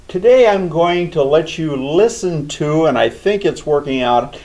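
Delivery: thin sound from a laptop mic; mic lying on the computer; tinny laptop mic. Real, not acted. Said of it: "I may sound a little tinny 'cause I don't have my mic on".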